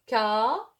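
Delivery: "Camarade" said slowly and clearly as ka-ma-rade; slow model pronunciation. Shown as a demonstration. Teacher models the word for Arabic-speaking pupils, clear and careful. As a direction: sound out "Camarade" syllable by syllable. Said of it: "Il faut prononcer le mot, euh, étape par étape".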